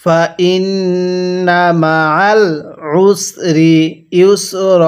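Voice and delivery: stretched syllables, measured Arabic reading; slow recitation. Shown as a demonstration. Teacher models the word slowly for learners to copy. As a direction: draw out ওয়া র ফা না evenly. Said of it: "আরেকবার পড়বেন।".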